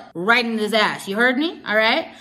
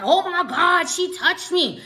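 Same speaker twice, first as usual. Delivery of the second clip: high mimicked outcry; mocking, high-pitched yelp of outrage; mock scream; 7 semitones higher than usual. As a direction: imitate his dramatic screaming, pitched up. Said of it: "So he's screaming over here".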